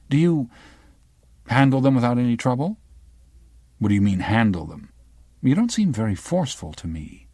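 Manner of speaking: a hint of a sharp young reporter; the girl from the news. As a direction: probe him like a pushy journalist.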